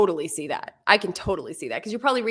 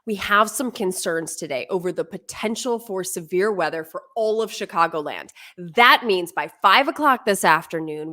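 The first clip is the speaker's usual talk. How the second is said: lower, louder, intense warning read; serious weather warning; 4 semitones lower, 3 dB louder than usual. Shown as a demonstration. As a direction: warn viewers of severe storms. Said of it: "it would be a little bit more like this".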